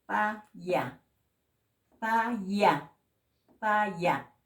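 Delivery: PA, YA with a plain Spanish p; simple P. Shown as a demonstration. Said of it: "simple como en castellano".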